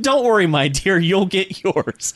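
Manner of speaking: high, slow smug reassurance; smug seducer. Retold or imitated. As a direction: purr it like a smug charmer.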